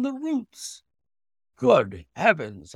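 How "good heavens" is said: slow, loud exclamation; shocked cry. Acted. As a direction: recoil in horror. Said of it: "I cried".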